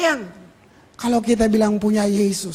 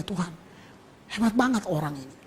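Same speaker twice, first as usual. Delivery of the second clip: softer, faster hushed aside; inner prayer; 4 semitones lower, 9 dB quieter, faster than usual. Retold or imitated. Preacher's silent prayer about the guide, softer and faster. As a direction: murmur it to God in awe. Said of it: "dalam hati".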